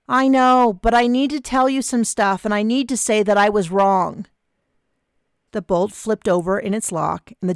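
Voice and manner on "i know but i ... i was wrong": calling through door. Acted.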